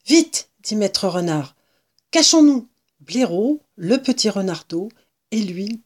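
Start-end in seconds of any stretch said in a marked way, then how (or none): 0.0-0.5 quick, high, urgent call; urgent warning. A narrator's reading. Fox warns companions as a woman approaches, urgent. 2.1-2.7 high, loud alarmed order; urgent warning. A narrator's reading. Fox tells companions to hide, urgent.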